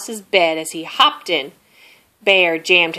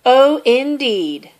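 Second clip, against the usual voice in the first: mouse voice; 6 semitones higher, 6 dB louder, slower than usual. A narrator's reading. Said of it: "said Mouse".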